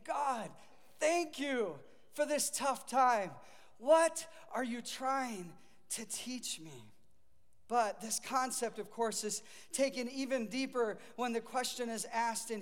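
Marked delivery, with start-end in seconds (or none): 0.0-6.9 slow, sincere thanks to God; unhurried grateful prayer, fading to near silence at the end. Shown as a demonstration. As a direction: pray it slowly, meaning every word. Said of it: "we need to be saying".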